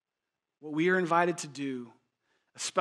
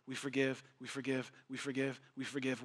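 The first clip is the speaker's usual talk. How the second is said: softer, intimate, repeating; soft repetition; 3 semitones lower, 9 dB quieter than usual. Acted. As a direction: drop your voice and let it sink in. Preacher repeats key phrase softly.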